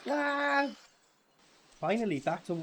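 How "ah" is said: high-pitched drawn-out "ah". Real, not acted. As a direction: let out a high cry of reaction. Reacting to the film clip.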